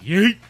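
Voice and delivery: high, loud cry of "yeet"; mock "yeet" yelp. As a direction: yelp it out as a quick imitation. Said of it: "deep down he was like".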